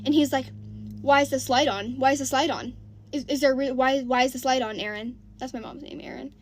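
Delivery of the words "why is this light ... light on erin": louder, repeated accusing questions; suspicious demand. Retold or imitated. Boyfriend interrogating mom about the porch light, loud and suspicious.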